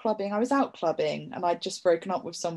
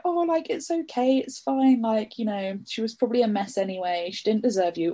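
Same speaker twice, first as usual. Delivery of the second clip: higher, reassuring dad talk; comforting dad; 4 semitones higher than usual. Retold or imitated. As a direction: soothe her like a kind father. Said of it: "he was just like".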